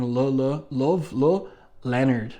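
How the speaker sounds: halting stutter on each syllable; stammering. Retold or imitated. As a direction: trip over the name nervously. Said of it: "she starts stammering".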